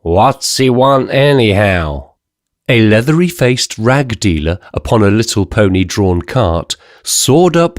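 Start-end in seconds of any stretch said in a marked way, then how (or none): 0.0-2.1 put-on tearful drunk sailor. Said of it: "A drunken American sailor wandered about tearfully".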